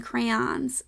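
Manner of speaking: crayons as cray-AHNS, open as in Don; crayons rhyming with Don. Shown as a demonstration. Listing the hard-to-say last option, crayons rhymed with Don. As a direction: end crayons on an "ahn" like Don. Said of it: "that last one is hard to say".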